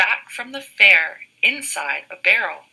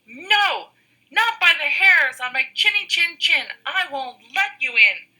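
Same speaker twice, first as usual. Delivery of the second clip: high, squeaky pig voice; squeaky little pig; 9 semitones higher, 4 dB louder than usual. Acted. First little pig refusing the wolf, high and squeaky. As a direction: squeak it out defiantly. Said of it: "squeaked the little pig".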